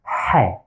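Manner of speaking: Ha said breathy from the throat; a pharyngeal Ha. Shown as a demonstration. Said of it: "That's the sound".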